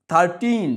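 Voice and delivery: second syllable টিন of থার্টিন stressed; stress on TEEN. Shown as a demonstration. Teacher shows pupils the clap syllable, stressed টিন in থার্টিন. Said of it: "টিন উচ্চারণের সময় তালি দিতে হবে".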